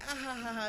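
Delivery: high mock ha-ha-ha; imitated amused laughter. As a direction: imitate kids finding it all hilarious. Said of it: "It's all funny and shit".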